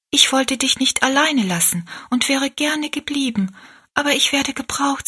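put-on a girl reassuring her sick mother; young girl. A narrator's reading. Rosalie explains to her sick mother, lightly voiced high.

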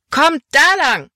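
high, loud, drawn-out call; slow, carrying cry to come along; rallying shout. A narrator's reading. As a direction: urge the gang to follow. Caleb urges gang the other way.

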